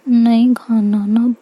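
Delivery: slow, coaxing little plea; cute pleading. Acted. Sick girl begging her carer to stop feeding her, slow and cute. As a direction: drag it out like a sulky child begging. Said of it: "ऐसे cute सा face बनाती है".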